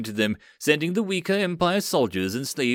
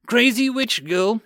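high, loud, slow yell; 11 semitones higher, 5 dB louder than usual. Acted. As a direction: bellow it as you dive for cover. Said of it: "Hitsu yelled".

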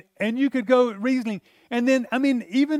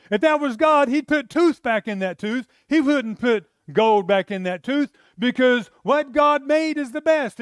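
mock heated rant; 5 semitones higher than usual. Ranting his past objection.

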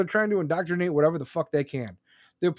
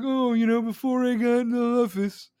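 mocking Biden; 4 semitones higher than usual. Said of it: "He's like".

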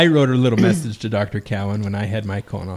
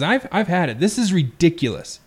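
mildly exasperated complaint, pitched up; higher-pitched, put-upon griping; irate passenger; 4 semitones higher than usual. Acted. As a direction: act out a fed-up passenger. Acted irate passenger in a joke.

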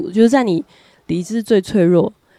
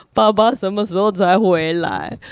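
slow imitation of a child at a loss; helpless little child; slower than usual. Child sees mother in pain, imitated helpless, slow child voice. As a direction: stretch it out like a fretful little child. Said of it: "他也不知道做什么".

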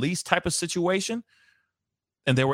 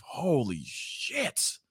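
spent from laughing; 3 dB quieter, much slower than usual. Real, not acted. After the laugh, exhausted.

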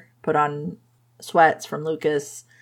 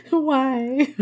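playing Rosie's horror at falling in love, laughing through it; mock panic with laughter. Rosie realising she loves him, in laughing mock despair. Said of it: "Rosie at this point is like".

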